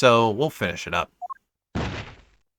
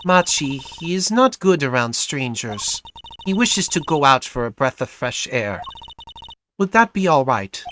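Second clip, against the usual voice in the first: put-on lightly European-accented singer; hint of a European accent; vague European accent; 4 semitones higher than usual. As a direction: speak carefully in a loose European accent. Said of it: "vaguely European accent".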